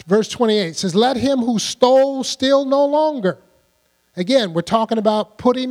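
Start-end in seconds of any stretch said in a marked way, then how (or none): 0.9-3.4 loud, higher scripture proclamation; forceful preaching. Acted. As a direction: proclaim the verse loudly. Preacher reads verse forcefully.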